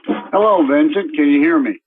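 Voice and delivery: tinny speakerphone sound; talking through a computer speaker. Real, not acted. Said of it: "Sounds like you're on a speakerphone".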